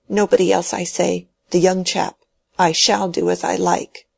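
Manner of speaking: put-on an old man clinging to his will, pressing his point; stubborn dying old man.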